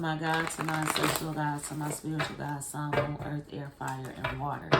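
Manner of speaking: measured, chant-like calling on her gods and the elements; ritual invocation. Acted. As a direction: intone it like an opening prayer.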